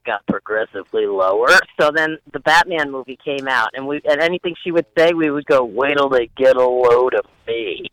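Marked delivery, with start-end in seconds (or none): 5.6-7.9 lightly voiced Nicholson Joker, slowed; a hint of the Joker, drawn out; Joker impression. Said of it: "'cause you sound like Jack Nicholson".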